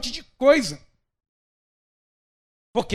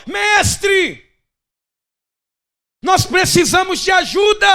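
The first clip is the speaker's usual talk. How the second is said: loud, high, panicked cries for rescue; desperate shouts for help; 9 semitones higher, 9 dB louder than usual. Acted. Disciples in the storm crying to the Master, loud desperate shouting. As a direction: yell like men about to sink. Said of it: "o que que eu posso ouvir que estava acontecendo dentro daquele barco".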